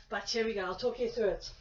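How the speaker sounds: ordinary talk, nothing marked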